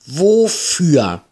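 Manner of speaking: sharp, high, loud grim question. Acted. Ida demanding why Marie took the line, grim. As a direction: snap the question out grimly. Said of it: "fragte Ida in grimmigem Ton".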